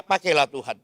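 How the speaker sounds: a father begging God not to take his son; desperate plea. Retold or imitated. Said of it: "Kira-kira gitu".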